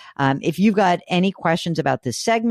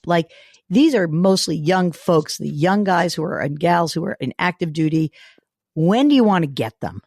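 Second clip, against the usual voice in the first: hoarse, sick, scratchy voice. Real, not acted. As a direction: talk through a sore throat with a rasp. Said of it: "here is my scratchy voice".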